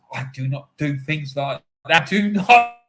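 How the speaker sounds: retelling a friend's indignant denial; mock upset. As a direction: Serbian friend firmly denying, mildly upset. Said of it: "He got really upset".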